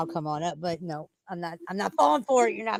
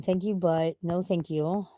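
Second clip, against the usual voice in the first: slow, spelled-out polite refusal; slow and deliberate; slower than usual. Shown as a demonstration. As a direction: drag each word out firmly. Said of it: "I'm saying".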